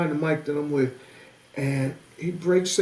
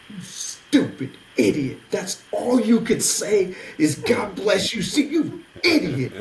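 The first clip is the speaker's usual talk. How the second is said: slow, drawn-out mock self-scolding, rising in pitch; mad at himself; 3 semitones higher, slower than usual. Storyteller alone on the train home, mock-angry self-scolding. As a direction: berate yourself in comic exasperation. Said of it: "I'm mad at myself".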